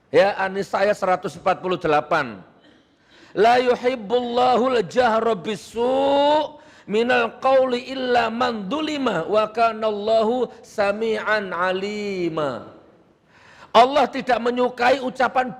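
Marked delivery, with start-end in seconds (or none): 3.3-12.8 slow, elongated Arabic recitation; Quran recitation. Real, not acted. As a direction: recite the verse with drawn-out vowels. (melantunkan ayat Al-Quran perlahan)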